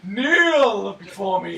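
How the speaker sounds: dark lord. Pretend. Commanding Zod catchphrase.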